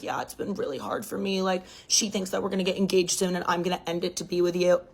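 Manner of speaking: mock his poor-me act, hushed; a lightly voiced cheating boyfriend playing the victim; mock good guy. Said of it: "trying to play a good guy".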